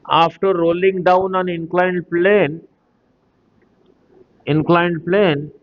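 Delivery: drawn-out, phrase-by-phrase reading; slow dictation. Real, not acted. Teacher dictating the inclined plane question, slow dictation. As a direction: read the question out slowly. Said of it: "धीरे धीरे बोल रहा हूँ".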